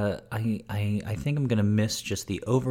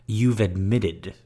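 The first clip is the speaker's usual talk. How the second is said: mock serious. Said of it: "Like it's a confession".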